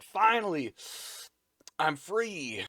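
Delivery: hammed-up cry of release; mock relieved cry. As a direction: play a character bursting free. Freed character cries out, retold.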